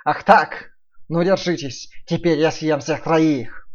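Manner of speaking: loud slow wolf threat. Acted. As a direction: menace them like a hungry wolf.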